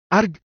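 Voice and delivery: high-pitched "argh" of shock; short acted cry of pain; pained yell. A narrator's reading. Levin jolted by electricity in his bedroom, pained yell. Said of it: "teriak Levin dengan tubuh yang langsung kejang-kejang".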